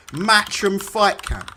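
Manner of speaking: slow, sneering naming; scornful drawl. Real, not acted. Streamer mocking Matchroom's old home shows, slow sneer. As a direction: draw the name out with contempt.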